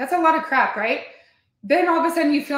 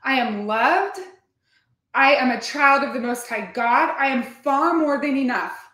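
affirmation. Shown as a demonstration. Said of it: "My mindset speech therapy is".

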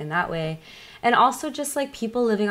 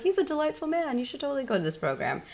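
dad voice; 8 semitones higher, 5 dB quieter than usual. Retold or imitated.

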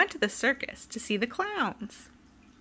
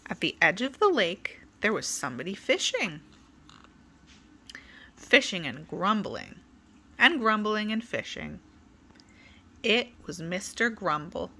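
put-on lively, sing-song read-aloud for kids; storybook reading. A narrator's reading. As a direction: tell it like bedtime story time. Reading a picture book to children.

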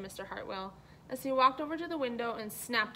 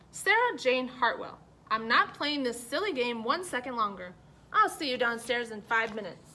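stern father; 6 dB louder than usual. Acted. Father loses patience with Sarah.

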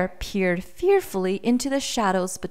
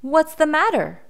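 higher, louder storybook bear question; concerned bear; 9 semitones higher, 5 dB louder than usual. A narrator's reading. Bear asks a sad small boy what's wrong, concerned. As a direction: ask as the curious storybook bear.

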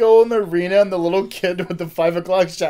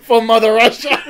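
put-on Russian accent; 4 semitones higher, 11 dB louder than usual. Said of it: "the kid's like".

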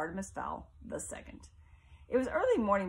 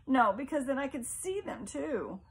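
a touch of panic, higher and a little louder; frightened mother; 7 semitones higher, 4 dB louder than usual. Acted. Mother pleading with her son not to open curtains, mildly fearful. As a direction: refuse in mild fear.

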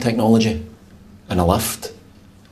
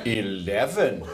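drawn-out, careful pronunciation; very deliberate, measured delivery; slow and clear; 3 semitones lower, much slower than usual. Acted. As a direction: stretch it out slowly for the machine. Told to speak slowly and clearly.

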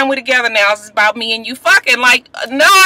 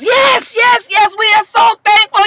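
pastor hooping; 12 semitones higher than usual. Retold or imitated. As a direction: holler it like a preacher in full swing. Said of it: "pastor gets the hooping and the hollering".

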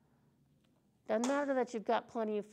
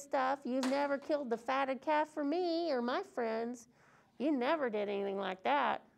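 pious whining; 2 semitones higher than usual. Acted. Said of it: "he was pious".

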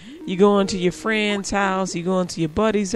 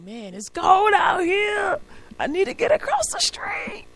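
impatient whine; 10 semitones higher than usual. Retold or imitated. Pedestrian complaining to self about crossing in the cold, impatient whine.

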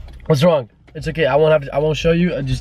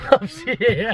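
tag; 5 semitones higher, slower than usual. Real, not acted. Laughing while insisting.

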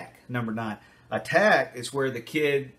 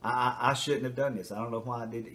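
real remorse; 3 dB quieter than usual. Retold or imitated. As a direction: sound truly sorry. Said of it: "the real remorse".

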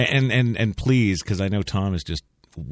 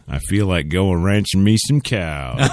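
laughing; 6 dB louder than usual. Acted. Host hams up a goofy line.

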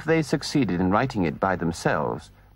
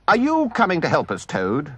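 stern; 5 semitones higher than usual. Acted. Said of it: "he demanded sternly".

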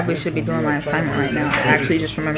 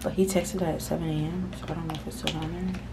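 whispering; 5 dB quieter than usual. Real, not acted. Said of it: "I'm whispering 'cause".

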